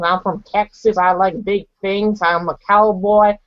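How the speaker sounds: imitated Texan cowboy accent; American accent. Shown as a demonstration. Showing how Americans talk, Texan accent. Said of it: "that's how American people talk".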